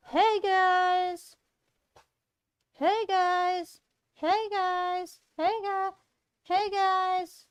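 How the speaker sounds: Vicky voice try. Shown as a demonstration. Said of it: "I need to think about the Vic voice".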